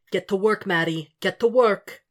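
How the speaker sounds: urgent commanding hiss-free call; urging inner voice. Acted. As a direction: push him to get to work. Inner devil voice urging him.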